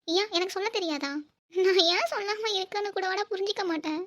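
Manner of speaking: exasperated, pitch jumping on the key words; upset accusation. Acted. Woman confronting her husband over telling everyone, exasperated protest. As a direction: protest in a hurt, agitated rush of questions. Acted lovers' quarrel, accusing partner.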